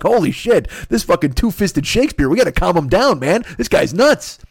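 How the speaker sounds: excited fan. Retold or imitated. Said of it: "Nobody out there is just like".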